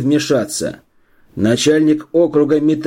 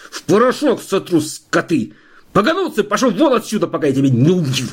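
furious tirade; 6 semitones higher than usual. A narrator's reading. Enraged official threatens doctor.

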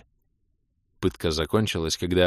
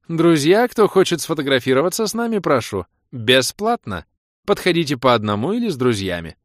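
raised voice to the crowd; calling to crowd; 6 semitones higher, 5 dB louder than usual. A narrator's reading. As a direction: call out to everyone, inviting. Baroness addresses the crowd.

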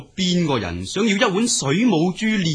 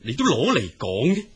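high, taunting, the last question rushed; mocking retort; 5 semitones higher than usual. Water god taunting the exiled dragon, high and mocking. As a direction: sneer that his witness is gone.

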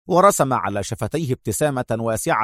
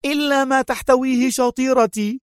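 feigned shout; 13 semitones higher than usual. A narrator's reading. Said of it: "صاحت".

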